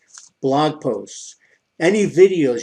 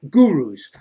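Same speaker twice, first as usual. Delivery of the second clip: slow, louder, sarcastic "gurus"; air-quoted sneer; 6 dB louder than usual. Shown as a demonstration. Mocking the so-called gurus, drawn out with scorn.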